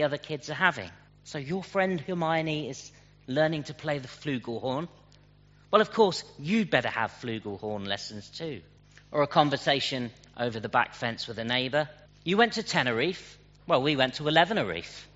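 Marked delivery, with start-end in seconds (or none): 1.2-8.6 mock pushy parent, higher on the well of course; lightly voiced boastful parent. 12.2-15.1 higher mock one-upmanship; lightly voiced smug neighbour; one-upping neighbour. Boastful neighbour over the fence.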